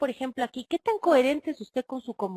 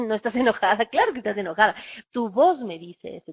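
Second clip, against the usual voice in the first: louder, sarcastic retort to the mother; exasperated daughter; 5 dB louder than usual. Retold or imitated. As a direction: throw the mother's denial back at her. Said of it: "Entonces la hija dice".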